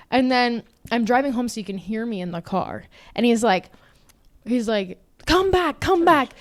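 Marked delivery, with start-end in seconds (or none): 5.3-6.3 high-pitched mock pleading; French boy. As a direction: call out imploringly, mimicking him. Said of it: "French boy".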